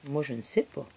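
usual speaking voice

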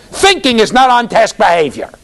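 loud, hammed-up bossy outburst, starting high; mock scolding. Visitor objecting to kids just listening, mock-angry scolding. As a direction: imitate an exasperated critic berating idle kids.

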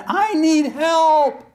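high, loud, slow cry; the one-word prayer, shouted in earnest; desperate plea. Shown as a demonstration. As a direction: beg from the bottom of the pit. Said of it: "You gotta mean".

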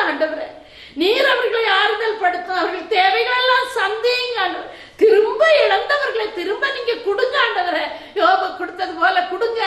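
prayer that swells from subdued to pleading and falls back; fervent intercessory prayer. Real, not acted. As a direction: plead with God for the grieving, rising on the requests. (உருக்கமாக மன்றாடும் ஜெபம்)

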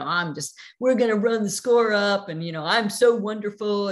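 a touch of chest-beating swagger; mock bragging. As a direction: puff up and brag like a fourteen-year-old. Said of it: "I was bragging".

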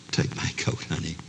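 soft, gentle offer; tender husband. Acted. Husband covering his chilly wife, tender and soft. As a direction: say it softly, caring for her. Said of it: "reach up tenderly".

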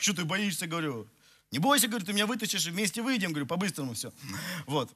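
ordinary delivery

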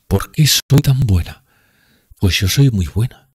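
high, loud tipsy woman pleading; drunk Grushenka. Acted.

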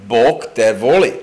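Bog te voli in Serbian, said clearly; Serbian phrase. Shown as a demonstration. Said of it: "how do you say "God loves you" in Serbian language?".

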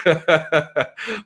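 real laugh at one's own struggle; amused laugh. Real, not acted. Doctoral student joking about surviving, amused laugh. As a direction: laugh it off after the joke.

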